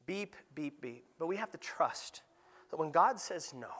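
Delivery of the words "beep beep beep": weak imitated beeps. Trails off into imitated timer beeps.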